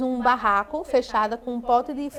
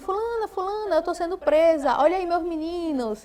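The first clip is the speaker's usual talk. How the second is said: mock desperate, high, urgent calling voice; 6 semitones higher than usual. Retelling an arrest where the woman yelled for her neighbour: imitating a woman yelling for her neighbour. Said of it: "ela gritando pela vizinha".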